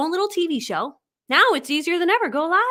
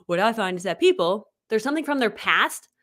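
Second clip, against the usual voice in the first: put-on half-held low boy voice; a hint of a boy voice; Ray Higdon; 4 semitones lower than usual. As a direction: lightly imitate him, slipping out of it. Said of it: "it was hard to do the boy, boy voice".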